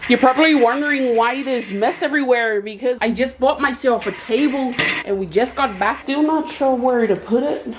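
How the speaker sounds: put-on an amateur's light Irish accent; having a go at an Irish lilt for the vlog. Vlogger tries out an Irish accent on viewers, lightly. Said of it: "Those were my efforts of the Irish accent".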